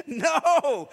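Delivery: turning down salad with a loud No; loud flat refusal. Pretend. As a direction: shut the offer down hard. Refusing the chicken offer.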